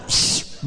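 long hushing rush of air; a quick swish for someone dashing off; imitated whoosh. Mother rushes to crying baby, imitated whoosh.

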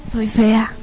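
understated defeated agreement; dejected echo. Retold or imitated. Woman repeating what demons say, dejected. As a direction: echo the insult as your own belief. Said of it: "empiezo a escuchar mi voz".

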